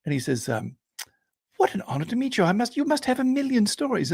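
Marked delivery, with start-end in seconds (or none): 1.6-4.1 put-on high, excited young officer; young man meeting his hero, high and eager; eager young Englishman. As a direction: gush up high like a starstruck cadet.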